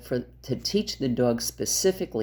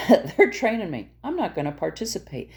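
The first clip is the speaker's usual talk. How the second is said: voicing the dog; 4 semitones higher than usual. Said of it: "The dog's gonna start going".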